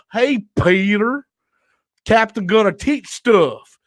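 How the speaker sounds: slow, drawn-out movie-character impression; James Gunn's brother. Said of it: "I feel like I'm James Gunn's brother".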